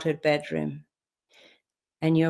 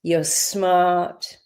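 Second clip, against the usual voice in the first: whisper. Acted. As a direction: whisper it to the child. Affirmation to inner child.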